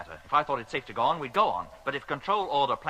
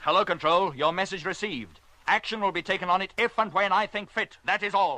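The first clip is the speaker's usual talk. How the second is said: firm radio reply; 4 semitones higher than usual. Acted. Defying Control over the radio.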